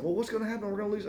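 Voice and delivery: a hint of a worried wife; wife worrying. Wife doubting the early wake-up plan, lightly voiced. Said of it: "my wife's like".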